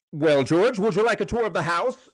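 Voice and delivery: mock TV boxing commentator greeting; Jim Lampley impression. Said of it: "it was all like Jim Lampley".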